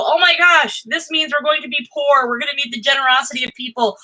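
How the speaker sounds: high, hammed-up panicked voice on "Oh my gosh", then easing down; mock panic. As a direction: play your own catastrophizing for laughs. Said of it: "I think of this and I go".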